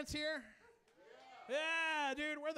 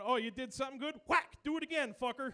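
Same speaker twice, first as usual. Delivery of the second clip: a hint of a gruff dad, sharp on whack; nineties dad; 2 semitones higher, 5 dB louder than usual. Comic imitating his dad praising with a smack. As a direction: bark it like a tough old-school father. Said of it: "my dad encouraged me by going".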